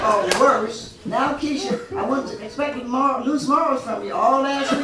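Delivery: loud, laughing parent's lecture, slowing at the end; mock scolding parent. Mock parent scolding Keisha, loud and laughing. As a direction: scold the kids while breaking up.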